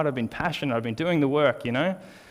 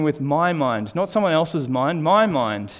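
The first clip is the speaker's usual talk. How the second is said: MY punched against "someone else's"; stress on MY. Retold or imitated. Preacher questioning himself about his own mind, stressing MY. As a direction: lean firmly on MY before "mind". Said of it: "this new emphasis came".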